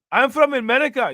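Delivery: high, loud put-on foreign accent with "America" said "Amedica"; mock foreign accent. Mocking how the migrant said America, loud foreign accent. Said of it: "Nobody says America like that".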